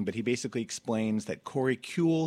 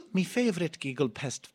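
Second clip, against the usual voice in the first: a light attempt at an Irish accent, slightly higher, laughing through it; mock Irish brogue on "Me favourite Giggle Pest"; 5 semitones higher than usual. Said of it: "attempt an Irish accent".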